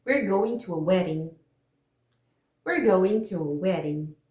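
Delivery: American tap in "wedding"; flap sound demo. Shown as a demonstration. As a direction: model sentence with the D of "wedding" tapped. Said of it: "Eu vou falar a frase".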